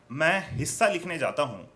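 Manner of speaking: measured verse, dropping at line ends; poetry recitation. Acted. Poet opens a short verse for listeners, measured recitation. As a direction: recite the verse to a live audience.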